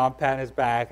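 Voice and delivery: normal talking voice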